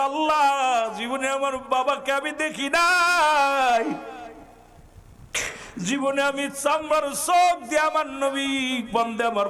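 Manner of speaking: high, sung-out wail to God; crying lament. Acted. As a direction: draw out the grief like a melodic cry. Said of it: "নবীজি কান্দার বলে". (কান্নার সুরে টানা বিলাপ)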